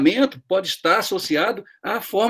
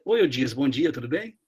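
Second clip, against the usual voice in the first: mock sweet greeting; 5 semitones lower, 6 dB quieter than usual. Boss sweet only to him.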